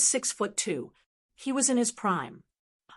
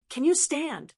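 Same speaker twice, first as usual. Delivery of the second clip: urgent; 6 semitones higher than usual. Acted. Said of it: "I asked her, urgent".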